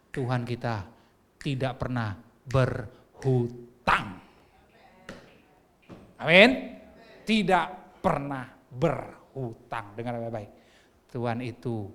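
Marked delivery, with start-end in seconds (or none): 1.4-4.2 "tidak pernah berhutang" very slow, with pauses between the words; emphatic word-by-word. Real, not acted. Preacher assuring the congregation, "tidak pernah berhutang" slowly broken up. 7.2-9.9 "Tidak pernah berhutang" very slow, each word set apart; emphatic word-by-word. Real, not acted. Preacher repeating for the congregation, "Tidak pernah berhutang" slowly broken up.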